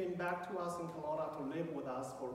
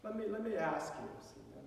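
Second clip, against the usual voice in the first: calming; 3 semitones higher, 3 dB quieter than usual. Retold or imitated. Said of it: "I need to calm him down first".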